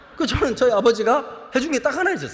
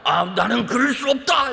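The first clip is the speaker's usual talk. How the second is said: martyr's refusal; 2 semitones higher, slower than usual. Acted.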